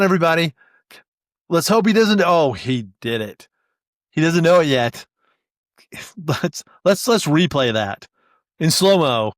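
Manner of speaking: sportscaster calling a blooper, rising at the big moment; play-by-play commentary. Pretend. Sportscaster calls a DBA's dropped database to viewers, excited play-by-play. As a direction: call it like a live sports announcer.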